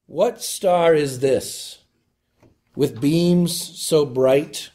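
slow, measured hymn reading; poem recitation. Acted. Preacher opens the Epiphany sermon with a hymn verse, slow and reverent. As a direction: savour each line of the old hymn.

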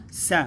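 س said as a short separate "sa"; voweled S alone. Shown as a demonstration. Teacher splitting the word into syllables, voweled S. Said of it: "تنطق وحدها لأنها متحركة".

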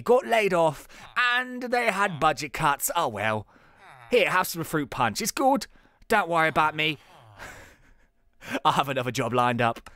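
put-on light South London lad accent. Laid-off designer chatting at a reunion, a bit South London. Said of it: "He's a little bit from South London".

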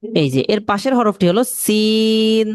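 slow, careful naming of the letter; slow teaching. Shown as a demonstration. Teacher slowly introduces the next letter to students. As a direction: spell it out slowly for beginners. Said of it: "slow teaching pace".

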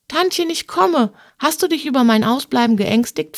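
high-pitched call to auntie, then settling; girlish call, easing into a question. Acted. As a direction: call ahead eagerly to a waiting aunt. Niece calls to her waiting aunt.

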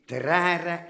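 "Terrare" lifted upward; rising pitch. Acted. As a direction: take "Terrare" up like a music teacher counting time. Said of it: "met een terrare naar boven".

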